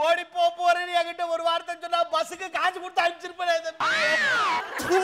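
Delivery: lament, stretching the final word into a cry; comic wailing. Acted. Father lamenting his eloped daughter, wailing.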